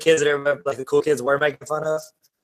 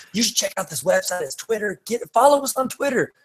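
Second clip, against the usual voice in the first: mock presenter; 6 semitones higher than usual.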